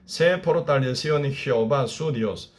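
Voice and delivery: steady, solemn verse reading; preacher reading verse six to the congregation, solemn; scripture reading. Acted. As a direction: read the verse with weight. Reads verse six aloud.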